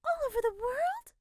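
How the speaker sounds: high, breathless whispered wonder; nosy woman, amazed; awed whisper. A narrator's reading. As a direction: marvel in a hushed voice. Incredulous busybody.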